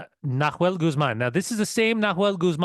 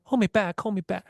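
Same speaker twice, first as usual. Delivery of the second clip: mock tough guy; 5 semitones higher than usual. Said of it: "act like they're the toughest guys".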